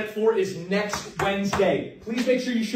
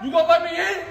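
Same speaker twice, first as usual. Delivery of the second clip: calling out; 9 semitones higher than usual. Acted. Teen calls across hallway.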